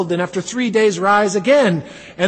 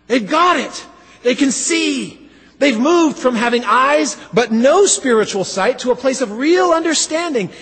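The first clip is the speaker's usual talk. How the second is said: joyful cheer; 4 semitones higher than usual. Pretend. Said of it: "We, we let out a big".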